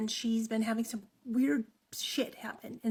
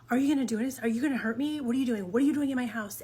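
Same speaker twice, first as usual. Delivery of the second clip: louder, panicked questions; scared; 5 dB louder, much faster than usual. Retold or imitated. Maddie confronting the stranger in her closet, panicked and loud. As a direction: fire the questions off in alarm.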